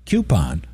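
"Coupon" with first syllable "kyoo"; "Coupon" opening like the word cue; coupon as KYOO-pon. Retold or imitated. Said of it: "which is how I grew up saying it".

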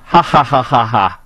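forced, spelled-out "ha ha ha"; mock laughter. Host mimicking the woman who was laughing, mock laugh. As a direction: fake a laugh in mockery. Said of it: "she was laughing".

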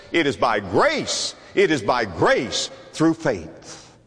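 slow, deliberate preaching emphasis; slow emphatic. Acted. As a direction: lean on each word slowly.

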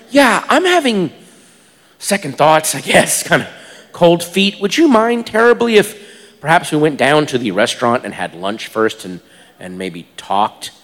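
polite, awkward hedging; hesitant backing out. Retold or imitated. Nervously backs out to prostitute.

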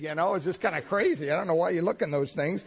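normal talking voice

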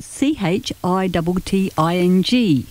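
letter by letter, spelling it out. Shown as a demonstration. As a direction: spell each letter clearly, evenly. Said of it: "which is spelled".

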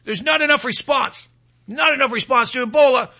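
high, whiny panicked imitation; mock-panicked, high-pitched fretting; mock alarmist official. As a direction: wail it like a hammed-up doom-monger. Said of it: "He said".

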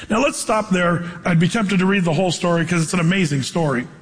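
ordinary delivery

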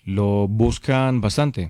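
patient slowed-down repetition after being asked what; slow clear repeat. Real, not acted. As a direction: repeat it slowly so the caller catches it. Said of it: "¿Cómo?".

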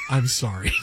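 very low banker's apology; deadpan, rehearsed brush-off; practiced apology. Acted. Banker answers "what about my money", deadpan. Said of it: "you sounded like you were, had practiced that".

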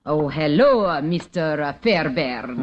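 a lightly faked Russian accent. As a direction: keep up the fake Russian accent. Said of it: "What happened to your Russian accent?".

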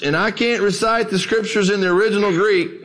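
a hint of a plain-spoken old preacher. Old preacher needling a scholar between bites, lightly acted. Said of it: "an old dark-skinned preacher".

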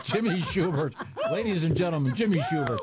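high-pitched show-host announcement; announcer outro. Real, not acted. Host thanks the comedian to the crowd, announcing high. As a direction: raise the pitch to cue applause for the guest.

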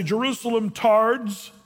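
slow, sneering name-calling; mock jeer at the city; mock insult. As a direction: drag out the insult with scorn. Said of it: "He didn't say".

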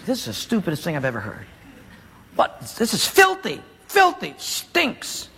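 furious. Acted. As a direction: spit out the disgust under his breath. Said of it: "and he's furious".

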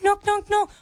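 high sing-song knock knock; knocking imitation. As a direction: chant the knocks playfully. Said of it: "I go next door and I go".

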